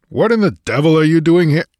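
loud, scowling demand; angry demand. A narrator's reading.

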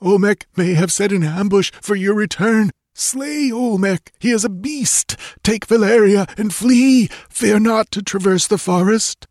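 high, gurgling voice of a dying man; urgent warning with failing breath. Acted. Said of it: "gurgled Tecuhtli".

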